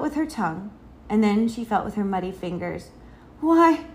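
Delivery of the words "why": high, loud cry of dismay; child's dismayed discovery; sad. A narrator's reading. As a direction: wail it mildly on the last word. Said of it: "she said sadly".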